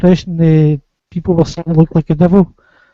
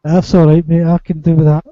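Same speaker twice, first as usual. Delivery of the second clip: put-on Scottish accent. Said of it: "you're the Scotty character".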